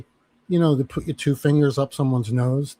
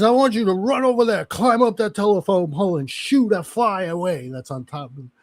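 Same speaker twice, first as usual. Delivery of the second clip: drill sergeant order; 5 semitones higher than usual. Retold or imitated. Drill sergeant gives absurd order.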